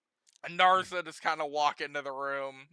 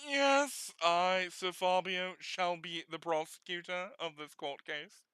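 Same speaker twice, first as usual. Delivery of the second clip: British prosecutor. Acted. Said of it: "making the scumbag guys British".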